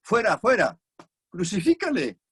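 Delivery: high, loud shout of the crowd. Retold or imitated. The crowd demands crucifixion from Pilate, loud high shout. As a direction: cry it out like an angry mob. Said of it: "Pero ellos gritaron".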